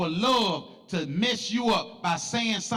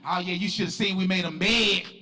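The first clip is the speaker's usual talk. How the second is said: lightly voiced movie gangster, lower pitched; movie gangster boast; 3 semitones lower than usual. Gangster bragging about the man they killed, lightly acted boast. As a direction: brag like a film gangster. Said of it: "like they say on the gangster movies".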